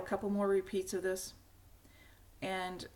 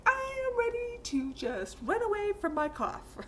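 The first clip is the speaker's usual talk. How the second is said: put-on much higher, fed-up child voice; mock-weary child complaining about the cough; whiny kid; 13 semitones higher, 3 dB louder than usual. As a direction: whine it like a sick kid sick of coughing. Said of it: "And the poor kid's like".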